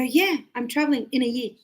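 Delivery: quick, with "in a year" run together; natural linked speech. Shown as a demonstration. Teacher showing how people really talk, linked and quick. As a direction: link "in a year" casually at speed. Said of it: "we don't speak like that".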